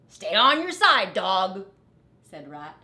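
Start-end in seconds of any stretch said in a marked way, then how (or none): 0.1-1.7 a bossy little rat yelling at the dog to keep away; Rat calling out. Acted.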